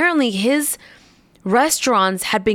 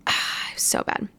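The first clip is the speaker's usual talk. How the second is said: whisper; 8 dB quieter than usual. Real, not acted. Recalling the horrendous meal.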